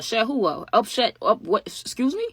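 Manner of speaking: outraged disbelief. Retold or imitated. Offended disbelief at Martha.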